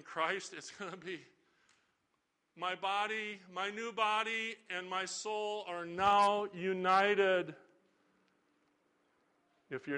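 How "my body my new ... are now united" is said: slow, awed inner voice of the raised; joyful risen believer. Pretend. The saved soul speaking at the resurrection, slow and awed. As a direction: savor each word of the new body.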